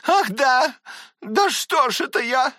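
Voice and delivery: high, loud burst of sudden recall; ахнув, вдруг вспомнив; sudden exclamation. Acted. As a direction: catch herself out loud. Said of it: "воскликнула она вдруг".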